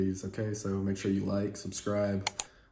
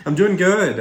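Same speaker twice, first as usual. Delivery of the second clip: upbeat; 10 semitones higher, 11 dB louder than usual. Real, not acted. Greeting interviewer brightly.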